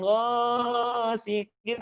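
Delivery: "ghasiqin" with first vowel stretched; overlong vowel. Shown as a demonstration. Teacher shows what to avoid, overlong "ghasiqin". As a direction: drag out the "gha" of "ghasiqin". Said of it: "tidak kepanjangan".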